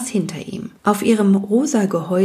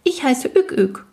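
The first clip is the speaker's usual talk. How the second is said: tiny man's voice; 6 semitones higher than usual. Acted. Tiny man introduces himself.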